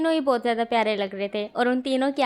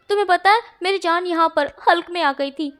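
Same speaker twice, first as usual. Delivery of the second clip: higher and louder, indignant complaint; upset outburst; 4 semitones higher, 3 dB louder than usual. Acted. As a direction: let the fright from the prank burst out. Wangji outraged after being fooled. (ऊँची आवाज़ में नाराज़गी)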